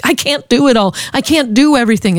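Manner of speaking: high, tearful, frustrated protest; crying and mad. Retold or imitated. Wife on the phone to husband John, upset and tearful. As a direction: vent it through tears. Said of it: "just crying and mad".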